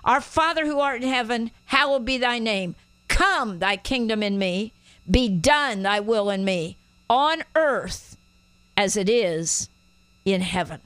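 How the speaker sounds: measured prayer with "Come" and "done" punched; firm, deliberate prayer declaration; declared prayer. Shown as a demonstration. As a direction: lead others in prayer, phrase by phrase, pausing toward the end. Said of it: "Pray it this way".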